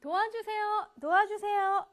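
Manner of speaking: high urgent cry for help; cries for help. Shown as a demonstration. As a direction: call out desperately for help. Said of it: "라고 외치고 있죠".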